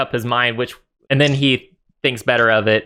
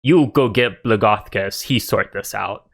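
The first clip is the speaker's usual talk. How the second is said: lightly voiced ogre giving orders; simple-minded ogre sending a mate off. Ogre sending another ogre for the boss, lightly voiced ogre. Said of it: "this ogre behind him and says".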